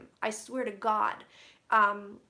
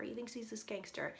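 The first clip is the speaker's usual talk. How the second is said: a hushed, voiceless whisper; mock secretive whisper; whispered aside; 10 dB quieter than usual. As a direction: whisper it like gossip. Quoting spirit's remark about Trump.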